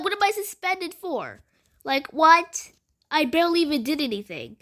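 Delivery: high, indignant what-am-I-suspended-for; outraged disbelief. Retold or imitated. Suspended student protesting to the teacher, high and outraged. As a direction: squeal the protest like it's unfair.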